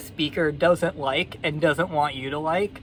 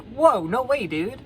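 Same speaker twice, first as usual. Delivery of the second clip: lightly voiced frog in mock alarm, higher at first; startled frog; 7 semitones higher, 3 dB louder than usual. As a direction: balk in high-pitched mock alarm. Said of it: "And the frog's like".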